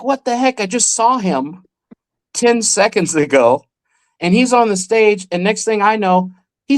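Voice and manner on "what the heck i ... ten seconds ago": high-pitched retold astonishment; amazed disbelief. Kid watching a magician reappear, much higher and amazed.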